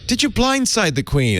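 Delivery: a hammed-up Irish lilt for Oprah's question; amateur Irish accent quoting Oprah; bad Irish accent. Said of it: "I apologize for my bad Irish accent".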